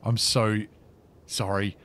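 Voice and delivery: low and very soft, nearly whispering; quiet murmur under the breath; hushed. Real, not acted. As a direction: keep it down so no one hears. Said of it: "I'm being very quiet".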